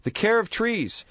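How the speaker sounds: radio sponsor read, upbeat. Acted. Host reads sponsor ad.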